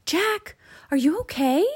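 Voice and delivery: high-pitched concerned call; shouting. A narrator's reading. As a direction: call down from the treehouse. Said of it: "Annie shouted from the treehouse".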